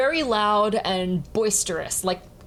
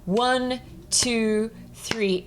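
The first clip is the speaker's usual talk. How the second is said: measured count-in, evenly spaced; steady spoken count in three; counting a triple beat; much slower than usual. Shown as a demonstration. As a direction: count it off like a conductor setting tempo. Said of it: "do this with a triple beat".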